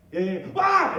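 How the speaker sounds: high, loud cry of alarm; yelped yeah yeah ah; startled yelp. Retold or imitated. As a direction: cry out as you get yanked. Jerked backwards by the shaft.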